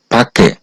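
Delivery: ফাঁকে said clearly as one word; teacher says ফাঁকে; Korean pronunciation demo. Shown as a demonstration. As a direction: model ফাঁকে for learners. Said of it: "এই শব্দটার সঠিক উচ্চারণ হবে".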